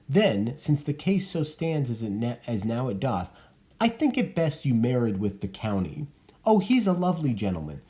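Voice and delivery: put-on a touch of a practical old nurse; the nurse advising Juliet, lightly voiced. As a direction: break the hard news plainly. Nurse urges marrying Paris.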